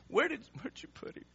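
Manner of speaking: high, halting voice on the edge of tears; weeping. Acted. Weeping Jesus asks mourners where Lazarus lies, high, tearful. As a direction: stammer it out through acted weeping. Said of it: "And so weepingly, Jesus says to them".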